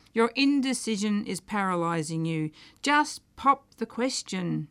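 a hint of a woman scolding J Alfred into therapy; Hermione Beecham Smith. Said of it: "it's really her telling J Alfred".

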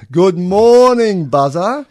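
big loud slow good morning; loud drawn-out greeting. Real, not acted. Host greeting loudly, drawn out.

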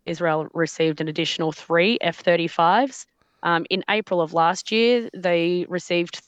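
choppy phone connection; words breaking up over a bad line; glitching audio. Real, not acted. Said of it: "You keep cutting out".

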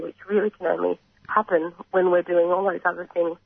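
hoarse, croaky speaking voice. Real, not acted. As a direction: talk through a croaky throat. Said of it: "apologies for my croaky voice".

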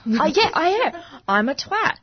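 playful whispered admission; whispering. Real, not acted. Agreeing in a whisper.

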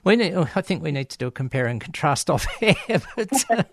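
laughing. Real, not acted. Host jokes about comparing notes off air, laughing. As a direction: laugh through the joking suggestion.

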